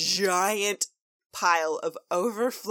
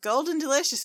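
high, louder call across the field; calling out a name; 8 semitones higher, 4 dB louder than usual. Acted. Searching for the cousin, calling his name loudly. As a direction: call the name out, falling at the end. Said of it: "they're like".

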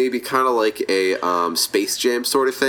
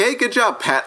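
high, strained mock praise; wincing congratulation; 10 semitones higher than usual. Battered fighters patting each other's backs, mock wincing praise. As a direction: congratulate while pretending to hurt. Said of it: "Patting each other on the back and wincing".

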